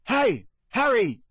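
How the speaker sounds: high, loud drawn-out hail; calling out. A narrator's reading. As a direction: call after someone up the stairs. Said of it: "heard someone calling him".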